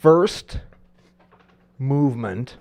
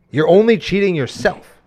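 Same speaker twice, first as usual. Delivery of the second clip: normal talking voice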